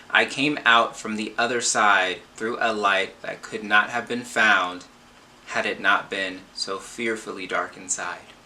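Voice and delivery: measured, emphatic reading aloud; book quote reading. Acted. Reading the back cover to viewers, emphatic read-aloud. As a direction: read it out firmly and deliberately.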